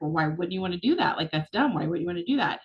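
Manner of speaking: mock condescending reader. Shown as a demonstration. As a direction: read it as a put-down, lightly acted. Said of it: "like, condescending and be like".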